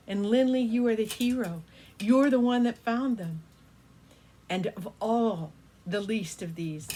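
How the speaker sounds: grateful Pegasus. Acted. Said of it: "and he said".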